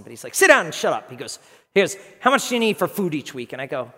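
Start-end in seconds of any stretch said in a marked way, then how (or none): 0.3-1.1 loud, raised mock order; gruff boss. Boss cuts off his embarrassed employee, gruff. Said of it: "he's just gruff". 1.7-3.5 lightly acted gruff boss, louder and higher; mock brusque questioning. Boss asks employee about his budget, mildly gruff. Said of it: "he's just gruff".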